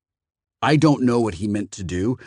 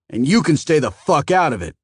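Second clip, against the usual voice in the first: louder, sharp retort; angry retort; 5 semitones higher, 5 dB louder than usual. A narrator's reading. Phoenician snaps at Matt to stay out, angry. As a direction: snap at the other clerk.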